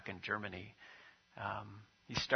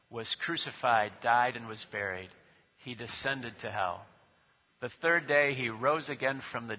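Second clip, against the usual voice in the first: louder, measured recitation; recited creed; 4 dB louder than usual. Real, not acted. Pastor leads the church in the creed, steady recital. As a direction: declare the creed together, steady and firm.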